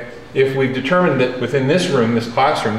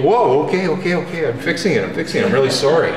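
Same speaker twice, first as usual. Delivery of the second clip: startled apology; 3 semitones higher than usual. Retold or imitated. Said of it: "And then you go".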